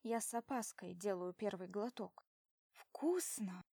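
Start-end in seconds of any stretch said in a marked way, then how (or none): 2.7-3.6 breathy whisper of delight. Acted. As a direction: whisper it, pleasantly surprised. First sip, whispered delight.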